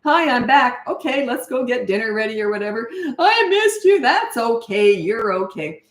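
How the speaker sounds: light, happy reunion with no fuss; cheerful hello. Shown as a demonstration. Parent picking up the child, short bubbly hello. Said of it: "make the hello short and sweet".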